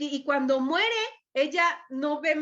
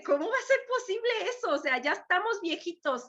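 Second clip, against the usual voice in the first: incredulous Sara; 5 semitones higher, faster than usual. Retold or imitated. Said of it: "Sara se ríe".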